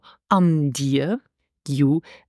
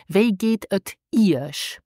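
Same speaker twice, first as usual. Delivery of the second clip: slow model phrase; 2 semitones higher, slower than usual. Shown as a demonstration. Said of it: "in a formal situation".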